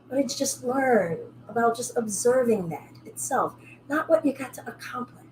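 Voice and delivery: soft, calm teacher voice guiding the class; guided yoga cool-down. Acted. Yoga teacher guiding students through a calm close, softly. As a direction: ease them into stillness.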